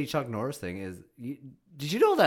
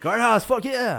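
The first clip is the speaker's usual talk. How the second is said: loud, high gym hype; hyped-up cheer; 7 semitones higher, 5 dB louder than usual. Pretend. Podcast host hyping up Guardhouse gym, loud mock cheer. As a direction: cheer it out, drawing the words slowly.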